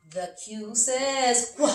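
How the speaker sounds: "qu" as a short clipped kw sound; letter sound qu. Shown as a demonstration. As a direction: sound out "qu" for the kids. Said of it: "Every letter makes a noise".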